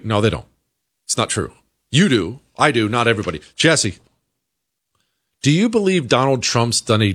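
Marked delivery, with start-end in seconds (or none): none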